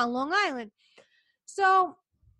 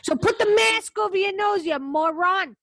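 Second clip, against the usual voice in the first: 1 angry scolding; 5 semitones higher, 8 dB louder than usual. Real, not acted. Scolding mask wearers, angry.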